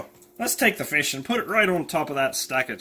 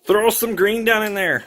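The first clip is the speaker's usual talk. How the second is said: bright, high, loud urging; egging on the green dye, higher and louder; excited call; 7 semitones higher, 7 dB louder than usual. Real, not acted. Cooking partner urging green dye in, excitedly.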